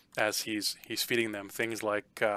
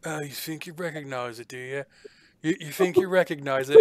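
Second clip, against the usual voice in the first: suspicious sneer; 4 semitones higher, 4 dB louder than usual. Acted. NPC suspicious of player.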